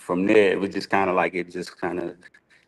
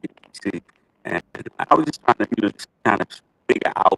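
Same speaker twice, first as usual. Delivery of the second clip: robot voice; 3 semitones higher, faster than usual. Real, not acted. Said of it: "It sounds like robot".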